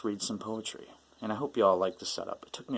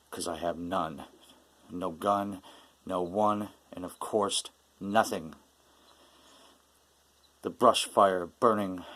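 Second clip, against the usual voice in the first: measured, intense spoken-word delivery; poetry reading. Acted. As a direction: recite a bitter, despairing poem with deliberate pauses. Reads own angry poem.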